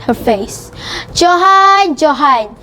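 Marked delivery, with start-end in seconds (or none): 1.1-2.6 annoyed. Acted. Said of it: "she said in an annoyed voice".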